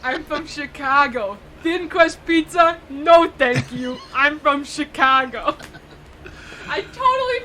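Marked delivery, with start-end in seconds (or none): 0.0-5.5 slow, proud Chicago accent; a hint of a Chicago guy bragging, slowly; a proud Chicago accent, each word stretched out. Shown as a demonstration. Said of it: "I remembered it".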